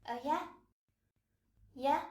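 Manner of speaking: "yeah" rising, reacting to news; interested little question on "yeah"; friendly response. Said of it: "respond in a friendly way".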